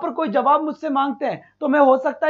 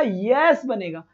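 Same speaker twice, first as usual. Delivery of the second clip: slow answer; 5 semitones lower, much slower than usual. Shown as a demonstration. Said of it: "ये क्या बनेगा?".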